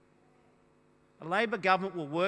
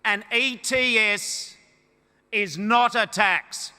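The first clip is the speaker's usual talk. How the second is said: spelled out slowly and loudly, word by word; slow, deliberate; 5 dB louder, slower than usual. Real, not acted. Leader spelling it out for his opponents, slow and deliberate. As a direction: hammer each word, slowly. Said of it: "in words of one syllable".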